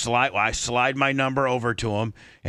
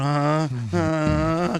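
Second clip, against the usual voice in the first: like Lummy; 4 semitones higher than usual. Retold or imitated. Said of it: "kinda like Lummy".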